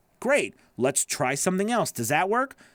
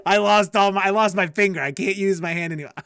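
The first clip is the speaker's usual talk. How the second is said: mock wail; 3 semitones higher, 5 dB louder than usual. Imagined failure crying out over a lost finger, louder and hammed-up. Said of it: "What is it?".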